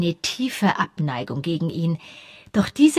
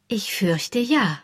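gentle; 2 semitones higher, slower than usual. Acted. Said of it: "sagte Miss Marple sanft".

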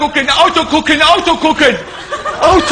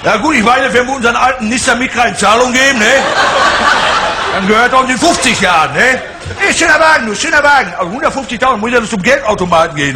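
proll car buyer; 5 semitones higher than usual. Acted. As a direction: gush over the new car like a show-off buyer. Same buyer character.

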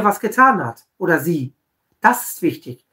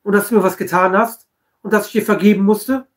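mock beaming. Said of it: "Und dann so lachend".

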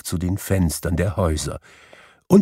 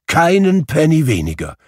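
put-on higher, louder old man pleading kindly; reformed miser asking forgiveness; eager, humble Scrooge; 9 semitones higher, 4 dB louder than usual. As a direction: Scrooge begging pardon warmly. Scrooge insists gladly.

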